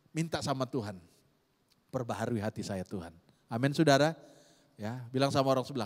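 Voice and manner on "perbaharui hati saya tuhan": quiet prayer. Shown as a demonstration. Model prayer for congregation.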